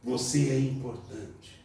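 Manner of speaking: soft, reassuring voice of God; tender. Acted. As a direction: reassure gently. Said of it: "Deus tá dizendo".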